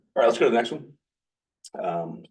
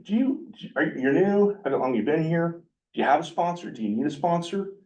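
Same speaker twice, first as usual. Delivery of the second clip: higher, bright welcoming newcomer voice; a raised, keen greeting voice; eager greeter; 9 semitones higher than usual. Retold or imitated. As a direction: play the friendly old-timer reaching out.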